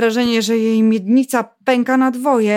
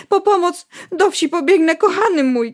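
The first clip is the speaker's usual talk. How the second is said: higher, urgent call for help; mild cry; 8 semitones higher than usual. Acted. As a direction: cry out to her husband. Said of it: "krzyknęła". (okrzyk żony, wyżej)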